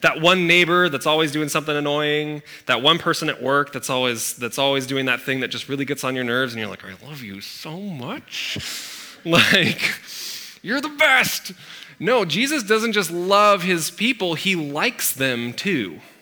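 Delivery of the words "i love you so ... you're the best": put-on gritted-teeth forced affection, much slower. Speaker acts out telling an annoying neighbor they're loved, mock gritted-teeth. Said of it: "like through gritted teeth".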